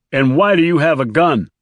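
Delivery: high-pitched, challenging question; agitated driver. A narrator's reading. Driver questioning the man with the gun, challenging. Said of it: "asked the driver".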